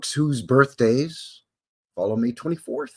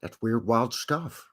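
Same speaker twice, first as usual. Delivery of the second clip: slow, lightly voiced late-night host; a hint of an old talk-show host, drawn out; Johnny Carson impression; 5 dB quieter, slower than usual. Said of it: "that's a terrible Johnny Carson impression".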